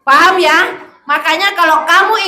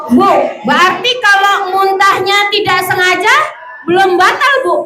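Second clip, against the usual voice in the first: higher-pitched, a hint of a questioning pupil; lightly voiced pupil; 5 semitones higher than usual. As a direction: lightly play a pupil checking with the teacher. (sedikit menirukan murid bertanya)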